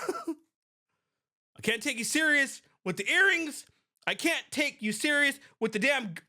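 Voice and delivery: laughing through the words; can't stop laughing while saying it. Real, not acted. Laughing at the earrings.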